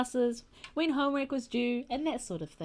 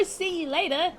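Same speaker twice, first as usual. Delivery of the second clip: correcting demo; 6 semitones higher than usual. Shown as a demonstration. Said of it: "This is what you say".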